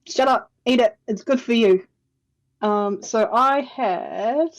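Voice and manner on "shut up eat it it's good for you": bossy. Acted. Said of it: "You go".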